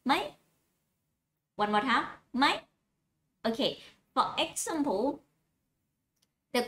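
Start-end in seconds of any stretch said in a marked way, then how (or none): 0.0-0.1 ไหม on a high tone. Shown as a demonstration. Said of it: "high tone". 2.4-2.5 ไหม repeated on a high tone. Shown as a demonstration. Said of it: "high tone".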